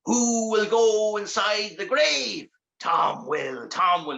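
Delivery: slow, drawn-out distant chant; muffled demon call from outside; muffled voices. Acted. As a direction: call it slowly as if heard through a coffin lid. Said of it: "he heard the muffled voices".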